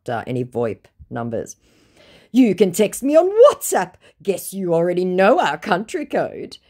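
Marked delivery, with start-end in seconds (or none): 2.3-6.6 high, pleading mock voice of the scammer. Reading the scammer's message aloud in a high mock voice. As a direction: play the whiny scammer, pitched up.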